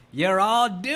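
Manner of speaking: loud, high prophet of doom; doom warning. Shown as a demonstration. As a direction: cry out their fate like Crazy Ralph. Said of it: "You should have said".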